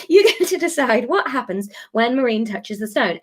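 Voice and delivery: giggling through the retry; trying to stay serious but laughing. Real, not acted. Repeats announcement, breaking into laughter.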